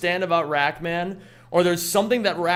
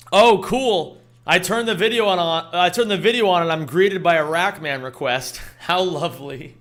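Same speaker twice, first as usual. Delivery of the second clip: sarcastic comment. Retold or imitated. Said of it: "the first comment I saw on that vod when I uploaded it was Board Plate saying".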